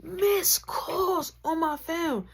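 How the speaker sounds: hammed-up wail about missed calls; mock crying. Mock sobbing over fifty-two missed calls. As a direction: whine it like a fake sob.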